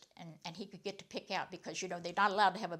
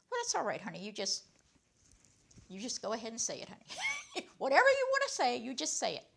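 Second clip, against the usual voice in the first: high, loud, laughing encouragement; teacher laughing as she coaxes Carl to talk; coaxing through laughter; 4 semitones higher, 4 dB louder than usual. Retold or imitated. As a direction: laugh while urging him gently to speak.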